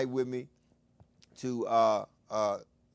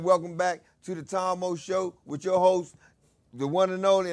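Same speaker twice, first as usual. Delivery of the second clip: announcer call; 2 semitones higher, 3 dB louder than usual. Shown as a demonstration. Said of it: "When I say".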